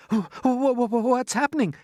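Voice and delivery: high, stammering alarm; frightened cry. Acted. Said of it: "cried James".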